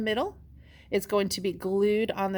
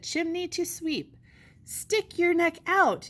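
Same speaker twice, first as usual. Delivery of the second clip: ad voice; 8 semitones higher than usual. Acted. Ad read in announcer voice.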